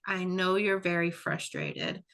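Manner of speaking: put-on slow, soothing reassurance to a frustrated child; calm validating voice. Shown as a demonstration. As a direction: gently acknowledge the feeling, slowly. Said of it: "I might say something like".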